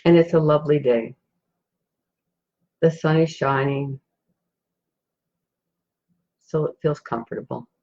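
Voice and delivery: calm meditation guide, long pauses between phrases; guided meditation. Acted. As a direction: gently guide listeners into a peaceful scene, unhurried.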